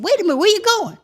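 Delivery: high, loud call after her; retold call to wait. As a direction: call her back, surprised. Clay calling after her.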